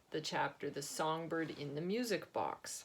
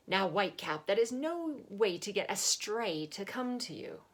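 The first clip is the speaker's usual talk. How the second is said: lightly voiced old man; 4 semitones higher, 5 dB louder than usual. Albert scolds monkey.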